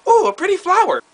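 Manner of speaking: mock a dazed girl spotting a flower; dreamy airhead. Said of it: "She's like".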